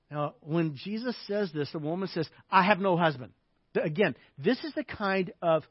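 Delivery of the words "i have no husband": short, curt denial; curt, sharp. Acted. Woman touched at a place of pain, curt. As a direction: shut the subject down sharply. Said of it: "respond to you in a real curt, sharp way".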